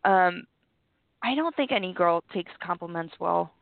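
low, rough, sick-sounding voice; talking through a sore chest; deep hoarse voice. Real, not acted. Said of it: "that's why I sound very deep tonight".

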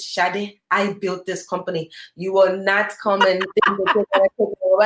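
lightly voiced Nigerian accent; a hint of a Nigerian accent in a retold refusal; Nigerian father. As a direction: imitate a Nigerian dad refusing, lightly put on. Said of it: "in his Nigerian voice".

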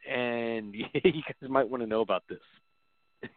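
slow, laughing mock advice; laughing through a mock quote. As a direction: chuckle while spelling it out slowly.

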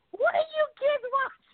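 imitating father. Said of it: "my father comes in".

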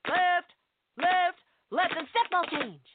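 barked orders to a chorus line; drill instructor directing a musical. Acted. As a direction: yell like a sergeant running rehearsal. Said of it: "impression of a drill instructor directing a musical".

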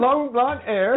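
high mock British line; a light British accent; imitated British accent. Co-host mimicking her British go-to line. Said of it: "her British go-to line is".

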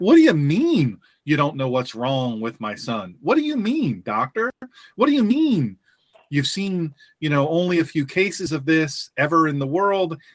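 a father demanding answers, mock outrage; exasperated father. Dad confronting son's doctor.

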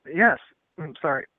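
coughing after tea went down the wrong pipe; choked-up voice, clearing the throat; choking on tea. Real, not acted. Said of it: "my tea went down the wrong pipe".

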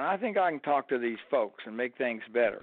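put-on light Alabama accent; easygoing imitated Alabama voice. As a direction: imitate an Alabama player offering to smooth things over. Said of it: "Alabama accent".

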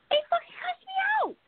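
high outraged cry. Real, not acted. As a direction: wail it in disbelief. Outraged retelling of being cussed.

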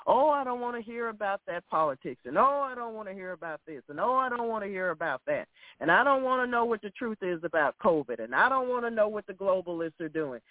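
fast, brushing-off voice; mock dismissive whine. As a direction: imitate people who don't want to know. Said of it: "stick your head in the dirt and say".

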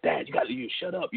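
put-on hushed, breathless little kid pleading; imitating scared son. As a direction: whisper it like a frightened child begging dad to stop. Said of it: "he's like, trying, like".

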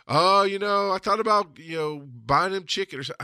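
high mocking "oh, you know"; mock sanctimony. Churchgoer explaining what they considered buying, mock sanctimony. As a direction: imitate a pious excuse-maker. Mocking religious people's excuse.

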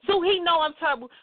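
ordinary talk, nothing marked

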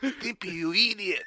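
high, loud cartoon scolding; cartoon catchphrase. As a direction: scold like an exasperated cartoon character. Cartoon catchphrase mimicked for laughs.

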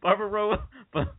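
high-pitched rapid run of "barbarita, barbacoa, burrito", tripping up; fast tongue twister. Shown as a demonstration. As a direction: race through "barbarita, barbacoa, burrito" until it falls apart. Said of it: "Can you say that five times fast?".

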